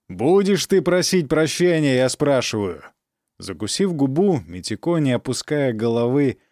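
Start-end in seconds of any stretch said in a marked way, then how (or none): 0.1-2.8 stern demand. Acted. Count demands apology.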